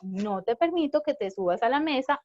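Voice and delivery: calm, firm words said up close. Shown as a demonstration. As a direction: speak it near the child, steady and calm. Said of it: "voy cerca de él y le digo". (firme y tranquilo, de cerca)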